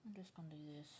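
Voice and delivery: talking around a pencil held in teeth; words muffled by a pencil; pencil in mouth. Real, not acted. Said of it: "Sorry, I had my pencil in my mouth".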